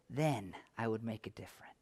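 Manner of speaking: mock excuse trailing into a whisper. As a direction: let the excuse fade to a whisper.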